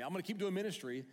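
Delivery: high, loud eager voice, fast in places; a torn apostle thinking out loud, voice climbing; Paul voiced high and loud in the sermon; excited Paul. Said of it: "he says".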